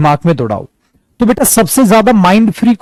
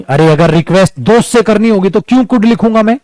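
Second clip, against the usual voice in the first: ordinary delivery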